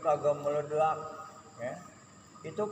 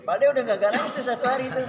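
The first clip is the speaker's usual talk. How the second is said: higher, louder, fast laughing aside; 9 semitones higher, 8 dB louder, faster than usual. Real, not acted. Preacher laughing to the congregation about the wife. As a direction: rattle it off through laughter.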